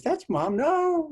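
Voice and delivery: high, urgent insisting; insistent sister. Retold or imitated. Sister telling their panicking father it really is Mom, insistent. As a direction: convince him, pitch climbing. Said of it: "she says".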